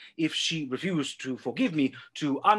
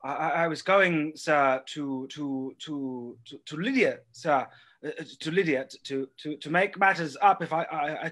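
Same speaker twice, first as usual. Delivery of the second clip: nervous stammer. Acted. Son stammers before his father.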